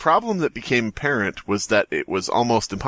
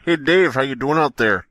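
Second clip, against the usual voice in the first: calling out to Dave; 4 semitones higher than usual. Acted. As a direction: shout a greeting out to sea.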